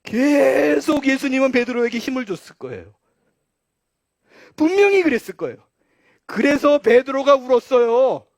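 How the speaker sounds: loud, high, climactic sermon voice; impassioned preaching. Real, not acted. Preacher telling why Peter wept, impassioned climax. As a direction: proclaim it at full force.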